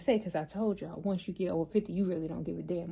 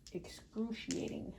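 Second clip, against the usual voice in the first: excruciating breathed out slowly and softly; drawn-out emphasis; 2 semitones higher, 9 dB quieter, slower than usual. Real, not acted. Telling viewers about a long workday, excruciating drawn out in a breath. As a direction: stretch excruciating to show how long the day felt. Describing her long day at work.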